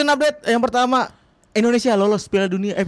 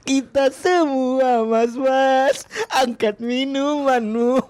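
slow, drawn-out grand toast; mock solemn toast; 6 semitones higher, much slower than usual. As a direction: raise a glass, ham it up.

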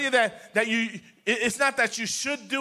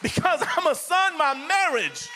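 confident son's prayer; 4 semitones higher than usual. Shown as a demonstration. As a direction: greet the Father triumphantly, full of victory. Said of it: "You got to say".

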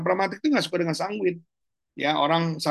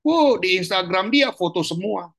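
mock excitement; 4 semitones higher than usual. Mocking show-off sanguine people.

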